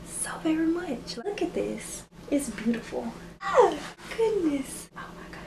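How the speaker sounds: tearful, barely holding it together; choked up. Real, not acted. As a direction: voice cracking with real emotion. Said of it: "I didn't expect to be this emotional".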